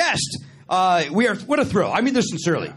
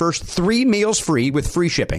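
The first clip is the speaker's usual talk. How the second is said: measured, lower-pitched sponsor read; podcast ad read; 3 semitones lower, 3 dB louder than usual. Acted. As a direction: read the offer out to listeners. Reads sponsor ad.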